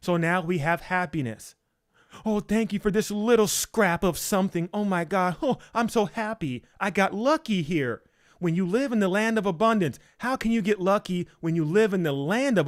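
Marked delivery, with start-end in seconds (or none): 2.2-8.0 higher, gushing over a scrap of luck; mock grateful gushing. Preacher mocking a believer who feels lucky, gushing. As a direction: play the giddy lucky one, mocking.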